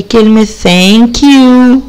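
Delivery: "thank" with a clear ث; th sound. Shown as a demonstration. Teacher showing pupils the TH sound. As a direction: stress the ث in "thank". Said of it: "نطقناها ث".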